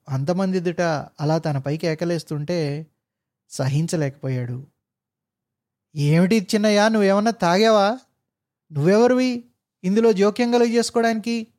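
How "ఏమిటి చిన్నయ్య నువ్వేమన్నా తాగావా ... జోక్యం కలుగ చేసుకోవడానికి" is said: higher, louder haughty rebuke; angry retort. Acted. Officer angrily rebukes the meddling driver. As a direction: put the driver in his place.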